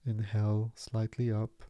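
measured meditation voice, long pauses between phrases; guided meditation. Acted. Meditation teacher easing listeners into stillness, calm guiding delivery. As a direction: guide them into calm, unhurried and spacious.

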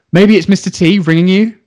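imitated husband. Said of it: "the other guy turns to him and he goes".

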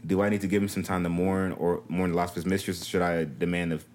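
low, even letter-reading voice; reading aloud. Acted. Co-host reading a troubled wife's letter, read aloud.

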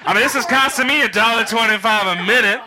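put-on drunk voice. Drunk self on phone, retold.

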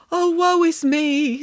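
high, slow lament; theatrical woe. A narrator's reading. Samantha acting for Nanny in rags, slow theatrical woe. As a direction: draw it out in mock misery. Children act out a woeful future.

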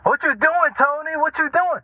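high-pitched imitation of a prying old woman; nosy old lady. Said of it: "Old lady sitting there blowing up the spot".

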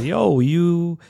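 a hint of brash swagger barking orders; cocky Shran. Podcaster imitating Shran bossing the monks, lightly voiced swagger. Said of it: "and he's like".

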